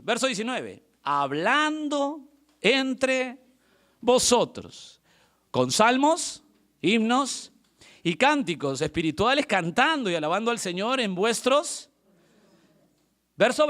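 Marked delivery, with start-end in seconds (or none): 1.0-11.8 verse declaimed in measured phrases; scripture reading. Acted. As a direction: open very slowly, stretching each word of the verse. Reads the Bible verse aloud.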